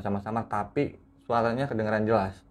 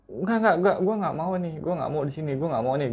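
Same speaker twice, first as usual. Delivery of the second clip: imitated frightened refusal, higher pitched at first; retold panic; 6 semitones higher than usual. Frightened friend begging to leave the room, retold panic. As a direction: repeat the refusal urgently, pitch settling as it goes. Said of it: "Dia teriak-teriak sendiri di kamar".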